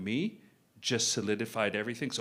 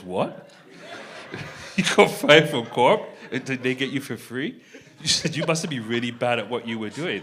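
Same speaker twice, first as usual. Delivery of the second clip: imitating a stunned girlfriend, voice raised; incredulous girlfriend; 9 dB louder than usual. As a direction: act out a girlfriend's loud, teasing incredulity. Girlfriend's reaction to firing retold.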